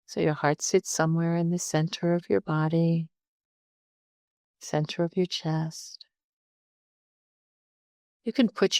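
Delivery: calm meditation guide with long pauses; unhurried, conversational meditation instruction; guided meditation. Real, not acted. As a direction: talk listeners gently through settling in, leaving space between phrases.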